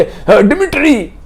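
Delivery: high, slow drawn-out answering cry; woman held back by police crying back to Dmitri. Acted. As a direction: call back to him, stretching it. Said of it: "वो उधर से चिल्ला रही है".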